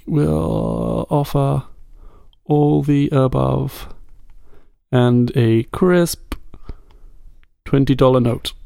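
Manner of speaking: halting, drawn-out composing aloud; slow dictation. Pretend. Host writing the offer live, slowly composing aloud. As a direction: spell out the offer slowly, with long pauses.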